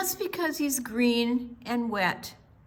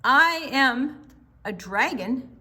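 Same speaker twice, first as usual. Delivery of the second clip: insistent dragon; 4 semitones higher, 4 dB louder than usual. Acted.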